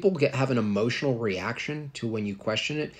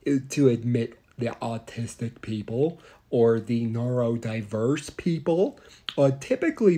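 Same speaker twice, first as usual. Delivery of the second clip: gently spoken astronaut; mock astronaut answer. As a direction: answer like a kindly, oblivious spaceman. Don Pettit answers the parent.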